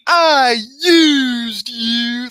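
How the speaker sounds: high, very slow wailing impression; Brother Love. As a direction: stretch each word into a hammed-up high wail. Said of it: "You sound like Brother Love".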